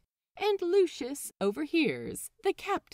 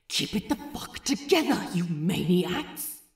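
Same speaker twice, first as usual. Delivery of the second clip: urgent scold; 5 dB louder than usual. A narrator's reading. Lucius warning Frenchie and Wee John, urgent angry scold. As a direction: snap at them to keep it together.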